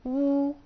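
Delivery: وو said high and clear as a model; teacher's model of the vowel; model syllable. Shown as a demonstration. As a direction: sound out وو for the class. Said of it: "وكان ينطق".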